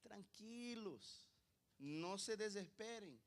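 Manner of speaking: slow, drawn-out reassurance; steady the frightened disciples; unhurried soothing words, long vowels; calming. Acted. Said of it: "Mire, tranquilos".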